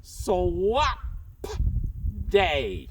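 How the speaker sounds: muffled behind a mask; through a face mask. Real, not acted. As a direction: speak through a costume mask. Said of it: "so hard to talk through this mask".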